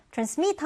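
"transmit" stressed on MIT; stress on second syllable. Shown as a demonstration. Teacher repeats the word for learners, back stress on transmit. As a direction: lean on the last syllable of transmit. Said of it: "뒤듬절의 강세를 두고요".

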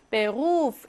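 루 in 베루프 held long; long vowel. Shown as a demonstration. Teacher showing the rule, long held u in 베루프. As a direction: stretch the u of 베루프. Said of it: "이렇게 길게 발음해야 합니다".

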